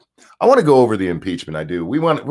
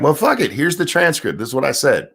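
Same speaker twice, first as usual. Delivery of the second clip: lightly voiced defiance, pitched up; a hint of brash, exasperated impersonation, higher than usual; Donald Trump; 4 semitones higher than usual. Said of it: "And Trump's like".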